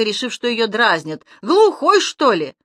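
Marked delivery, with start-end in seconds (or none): 1.4-2.5 put-on cross toothless old woman shouting; angry lisping granny. A narrator's reading. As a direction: snap at him, lisping. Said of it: "рассердилась старушка".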